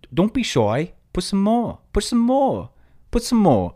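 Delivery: put-on high, building New York accent meme voice; imitating New York accent. Imitating the girl's viral meme in a New York accent. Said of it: "her New York accent".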